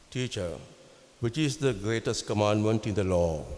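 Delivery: solemn scripture proclamation; gospel reading. Acted. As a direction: read it out like the Sunday gospel.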